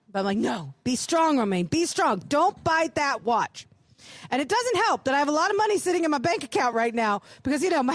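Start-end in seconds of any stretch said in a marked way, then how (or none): 0.4-3.7 slow, firm self-talk; stern with herself. Retold or imitated. To herself in the shop, a slow, stern pep talk. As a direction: brace yourself like a stern coach. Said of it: "I'm being really stern with myself".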